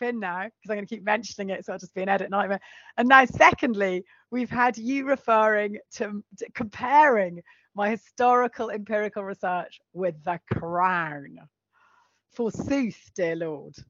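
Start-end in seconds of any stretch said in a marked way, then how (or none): 3.0-13.7 slow, mock-Shakespearean outrage; hammy stage actor. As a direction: ham it up like an old tragedian. Mock-outraged theatrical tirade.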